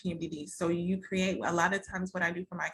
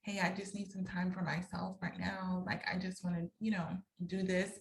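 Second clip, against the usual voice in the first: soft, gentle request, a touch quieter; said lovingly; 3 dB quieter than usual. Retold or imitated. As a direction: ask for space tenderly, not snapping. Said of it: "if I gently told him".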